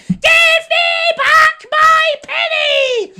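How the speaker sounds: high, slow, shrieking cockerel cry; angry cockerel. Acted. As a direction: crow it out furious at the sultan. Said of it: "and the cockerel said".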